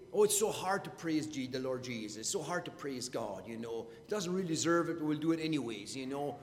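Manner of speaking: quiet, reluctant sigh of a dutiful churchgoer; grudging mock praise. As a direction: drag it out as if praise were a chore. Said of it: "We don't say".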